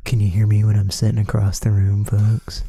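loud call across the room. Real, not acted.

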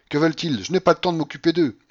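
high, loud, hurried dismissal; impatient cry. A narrator's reading. Grandmother refusing to deal with her relatives, impatient cry. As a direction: wave them off impatiently. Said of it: "cria la babouchka".

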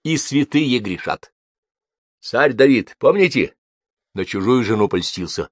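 gentle, high-pitched consoling; kindly forgiving storyteller; tender. A narrator's reading. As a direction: comfort him with an old parable. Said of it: "промолвил он с нежностью".

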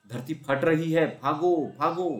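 loud, high, slow alarm call; running shout. A narrator's reading. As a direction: keep yelling while running. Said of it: "चिल्लाते रहे". (भागते हुए चिल्लाना)

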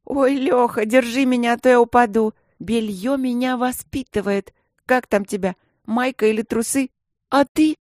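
высокий, громкий мальчишеский голос, издёвка; потешайся над девчонкой, изображая смех до упаду; насмешливый Женька. A narrator's reading. (дразнись звонко и задиристо)

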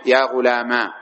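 "غلاما" ending in long aa; alif ending. Shown as a demonstration. Teacher showing the alif form, "غلاما" with long final aa. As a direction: say "غلاما" as ghulamaa. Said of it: "وبالألف".

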